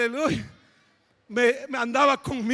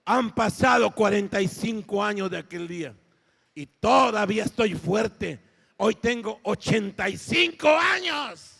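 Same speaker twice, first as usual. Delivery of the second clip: Caleb de ochenta y cinco años; 3 semitones lower, 3 dB louder than usual. Retold or imitated. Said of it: "Y dijo".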